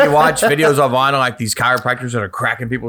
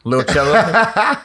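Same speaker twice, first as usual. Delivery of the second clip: drawn-out singsong; 7 semitones higher, much slower than usual. Acted. Drawn-out mock chant.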